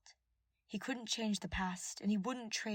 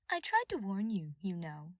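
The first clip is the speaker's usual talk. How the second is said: mocking; 4 dB louder than usual. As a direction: needle him with a sly told-you-so. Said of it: "she mocked".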